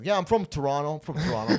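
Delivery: loud, proud announcement; proud bragging. Retold or imitated. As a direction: brag it to everyone. Bragging about being from Toronto.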